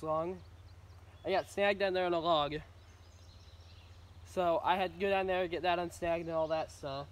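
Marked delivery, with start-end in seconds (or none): 1.2-7.1 mumbling around sunflower seeds; talking with seeds in mouth; mouth full. Real, not acted. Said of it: "sorry, I got sunflower seeds in my mouth".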